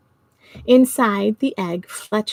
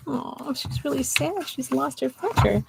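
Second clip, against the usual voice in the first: sympathetic; 4 semitones higher, 7 dB quieter than usual. Real, not acted. Sympathetic aside about crying girl.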